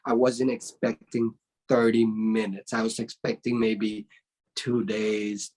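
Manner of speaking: a hint of an impressed teacher; proud master. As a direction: tell him gently he surprised you. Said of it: "and then I said".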